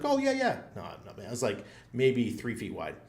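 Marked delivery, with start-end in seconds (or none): 0.0-0.6 mock guard reply. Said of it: "He's like".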